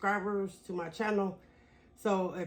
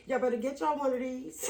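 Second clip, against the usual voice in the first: excited shout; 5 semitones higher than usual. Real, not acted. Hair vlogger hyping her conditioner to viewers, excited shout. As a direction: shout it out like you can't contain it.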